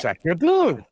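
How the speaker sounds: mock French exclamation; French accent. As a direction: toss it off in a hammy French accent. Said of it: "just to sound more French".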